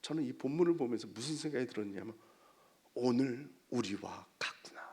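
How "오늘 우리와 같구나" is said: hushed reflection. Retold or imitated. Preacher voices a thought on the passage, hushed reflection. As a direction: let it sink almost to a whisper.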